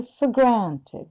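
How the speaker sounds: slow "for granted" with a light r on "for"; careful demo. Shown as a demonstration. Teacher modelling the phrase for students, slow and careful. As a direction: sound out "for granted" slowly, small r. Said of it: "だからちっちゃく上げる".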